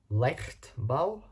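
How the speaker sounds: Leichtbau tried out with a questioning rise; unsure pronunciation. Real, not acted. Reader stumbling on a German car term, unsure pronunciation. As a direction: say Leichtbau tentatively, pitch lifting at the end. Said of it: "can't really pronounce that".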